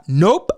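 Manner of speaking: NOPE popped with a rising end; typed-out nope. Retold or imitated. Imitating Ruby Rose typing her post, emphatic NOPE. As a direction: tack on NOPE with an upward flick. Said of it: "you don't know how she's typing".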